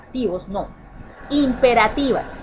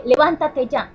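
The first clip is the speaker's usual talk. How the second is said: louder mock order to get up; mom's order; 4 semitones higher, 5 dB louder than usual. Shown as a demonstration. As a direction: order the child out of bed, firmly. Mother ordering child up.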